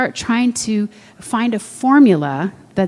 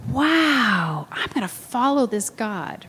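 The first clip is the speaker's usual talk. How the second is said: acted amazement; 3 semitones higher, 4 dB quieter, slower than usual. New believers after answered prayer, acted amazement. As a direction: softly marvel in a raised pitch.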